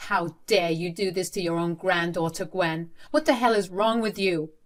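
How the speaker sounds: rising anger, loudest at the end; angry shout. Acted. Father shouting at his mother, rising anger. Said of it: "I shouted at Gwen and said".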